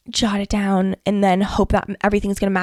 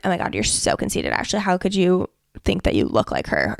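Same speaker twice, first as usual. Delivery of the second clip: much lower, snide hater impression; mock critic voice; 4 semitones lower, 4 dB quieter than usual. Mocking what critics might say about her photo, lower. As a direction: sneer like a judgmental onlooker.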